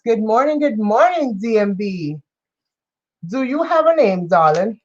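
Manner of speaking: light mock British greeting; a hint of posh British charm; greeting a viewer in a light British accent; playful British accent. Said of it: "I play around with accents".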